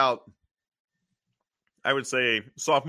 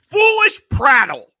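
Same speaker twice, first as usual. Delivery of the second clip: loud, high indignant shout; 11 semitones higher, 11 dB louder than usual. Retold or imitated. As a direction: bellow it out scornfully. Acting Catwoman's line.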